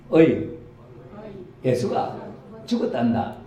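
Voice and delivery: a milder Gyeongsang granny line, read along with the congregation; Gyeongsang grandma, retold. Preacher leads the congregation in a calmer Gyeongsang grandma reading. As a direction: lighter take of the country-granny call. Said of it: "같이 해보세요".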